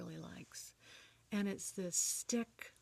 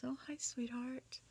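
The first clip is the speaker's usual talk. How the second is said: higher, slow, fond hello; glad greeting; 6 semitones higher, 3 dB quieter, slower than usual. Retold or imitated. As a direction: greet a daughter fondly, drawn out. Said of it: "he was so glad".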